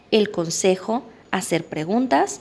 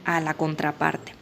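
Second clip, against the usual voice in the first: whispered aside; 5 semitones lower than usual. Real, not acted. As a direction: drop to a whisper. Aside at sentence end.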